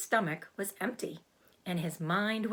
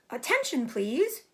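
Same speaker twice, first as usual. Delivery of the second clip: higher, louder, firm announcement; 6 semitones higher, 4 dB louder than usual. A narrator's reading. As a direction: call the barn to attention. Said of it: "in a loud, firm voice".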